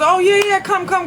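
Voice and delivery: high, bright mock greeting, pitched well up; imitating her own eager welcome at the club; excited welcome. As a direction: retell a delighted hello to a guy she remembers. Greeting old acquaintance at party.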